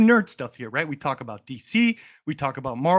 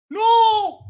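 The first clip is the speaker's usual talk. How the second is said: high squeaky voice; slower than usual. Pretend. Streamer mocks chat with high cartoon squeals. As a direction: squeal like a cartoon character in a tantrum.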